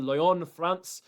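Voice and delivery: Lyon and France said with a French accent. Shown as a demonstration. Announcing the pick, says the fighter's hometown in a French accent. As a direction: slip into a light French accent for the city. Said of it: "That was a French accent".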